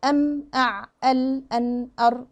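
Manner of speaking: letters held evenly, not cut short; held medium timing. Shown as a demonstration. Teacher shows students the medium hold on five letters, measured and held. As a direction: sustain each consonant briefly at medium length. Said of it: "يبقى هنعملهم كده".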